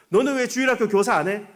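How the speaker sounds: pressing a grown former pupil; teacher's challenge. Retold or imitated. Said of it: "아이들이 좀 이렇게 성장해서". (높고 크게 따져 묻는 선생님)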